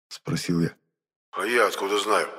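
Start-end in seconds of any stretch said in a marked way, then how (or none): 1.3-2.3 testy snap. Acted. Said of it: "закрысился Моня".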